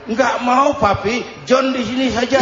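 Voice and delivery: lightly acted son calling back; anak menolak. Son refusing his father's call. (suara anak menolak, bernada tinggi)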